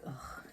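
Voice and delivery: short exasperated ugh; imitated teenage groan of annoyance; annoyed teen sigh. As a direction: huff like a bored teenager. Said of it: "annoying sigh or whatever you wanna call it".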